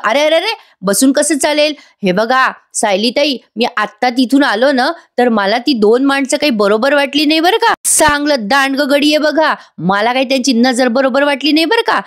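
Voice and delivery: agitated Raya. Acted. Raya voiced, suspicious.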